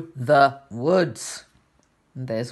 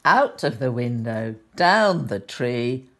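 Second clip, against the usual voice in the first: put-on gentle storybook reading for children; sweet old lady. A narrator's reading. Reads picture book to children.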